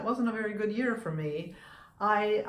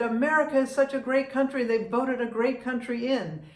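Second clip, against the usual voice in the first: raised, louder gushing quote; retold excited praise; 4 semitones higher, 5 dB louder than usual. Kiosk man praises America to the visiting voter, excited. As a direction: act out an admiring foreigner's enthusiasm.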